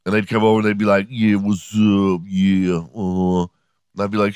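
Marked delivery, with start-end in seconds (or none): 1.1-3.5 slow, drawled mock hood greeting; imitated wannabe hood kids. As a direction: mimic rich kids posing as hood. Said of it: "ass wannabe black people".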